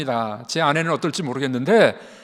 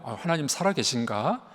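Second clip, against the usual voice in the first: voiced doubt; 5 dB quieter than usual. Preacher voices a believer's doubts to the congregation, quietly doubting. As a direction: softly muse like a wavering believer. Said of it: "의심이 오잖아요".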